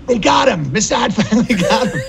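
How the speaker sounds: laughing through a mock panic; mock alarm, laughing. Man imitating worried friends, laughing mid-line. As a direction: play their panic and crack up. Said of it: "they'd be like".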